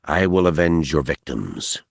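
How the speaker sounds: low, understated clenched threat; through his teeth. Acted. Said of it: "he said through his teeth".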